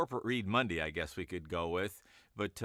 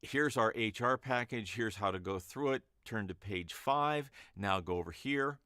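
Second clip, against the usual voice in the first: corporate read; 3 semitones higher than usual. Shown as a demonstration. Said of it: "if you need a regular old".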